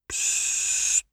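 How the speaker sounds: long, hushed "psst"; whispered shushing; soft shush. A narrator's reading. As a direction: hiss softly for silence. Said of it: "machte Zeus leise".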